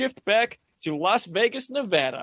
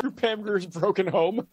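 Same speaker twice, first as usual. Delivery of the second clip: laughing; 3 semitones higher than usual. Real, not acted. Laughing at running joke.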